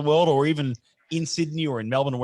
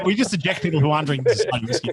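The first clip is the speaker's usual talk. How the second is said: ordinary talk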